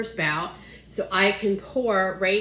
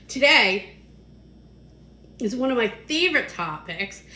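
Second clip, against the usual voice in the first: talking through hiccups; speaking between hiccups; 3 semitones higher than usual. Real, not acted. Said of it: "I have the hiccups today".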